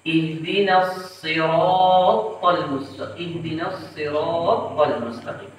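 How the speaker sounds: slow "siratal" with the t held double; doubled tha error. Shown as a demonstration. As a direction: geminate the heavy t in "siratal". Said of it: "Kemudian mentasydidkan huruf ta".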